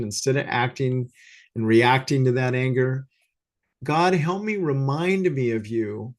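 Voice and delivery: humble prayer. Shown as a demonstration. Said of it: "Just say".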